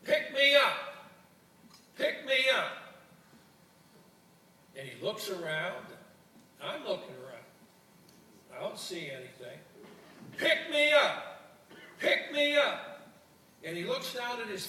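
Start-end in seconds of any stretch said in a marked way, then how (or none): 0.0-2.8 high, slow, loud little frog voice calling out. Acted. A talking frog calls up to the old fisherman, high and pleading. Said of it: "there's a voice that calls". 10.3-13.1 high, slow, loud little frog voice calling out. Acted. A talking frog calls up to the old fisherman, high and pleading. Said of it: "there's a voice that calls".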